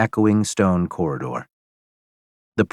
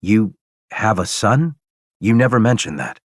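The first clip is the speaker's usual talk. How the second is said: shocked question; 3 semitones higher than usual. Acted. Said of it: "confused and shocked".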